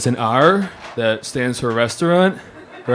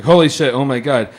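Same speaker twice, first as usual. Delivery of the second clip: exasperated outburst; 5 dB louder than usual. Retold or imitated. Narrator's inner exasperation.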